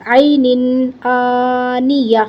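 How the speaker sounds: "عینن آنیہ" slow, closing on a breathed h; waqf with ha. Shown as a demonstration. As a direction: recite "عینن آنیہ" slowly, stopping on an audible h. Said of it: "ہا کی آواز نکال دی". ("عینن آنیہ" کے آخر میں ہا پر وقف)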